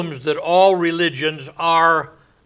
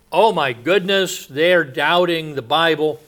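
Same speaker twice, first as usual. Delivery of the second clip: mock alarm; 3 semitones higher, 5 dB louder than usual. Believer reacting to people doubting the Bible, mock alarm. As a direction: play a shocked believer, lightly hammed-up.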